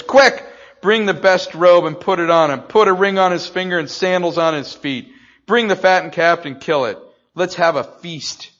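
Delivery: loud, high, joyful orders; booming glad command to the servants; excited father. Acted. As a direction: call out for the feast like a thrilled father. Father's joyous orders voiced.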